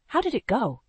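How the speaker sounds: dry, rasping croak; croaky voice. A narrator's reading. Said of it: "I croaked".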